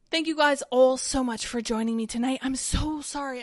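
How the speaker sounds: winded sign-off; short of breath. Real, not acted. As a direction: talk while struggling for air. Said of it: "I'm so short of breath".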